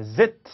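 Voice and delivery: "zit" as Z plus short I plus T; linked syllable. Shown as a demonstration. Teacher building the linked sound, "zit" in one syllable. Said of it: "이렇게 됩니다".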